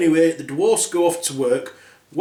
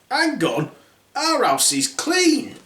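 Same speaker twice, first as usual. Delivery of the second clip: put-on drunk dwarf; 10 semitones higher, slower than usual. Drunk dwarfs coming home.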